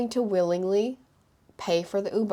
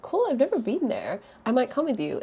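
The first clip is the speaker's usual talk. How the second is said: bright and eager; 6 semitones higher than usual. Retold or imitated. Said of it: "I'm like".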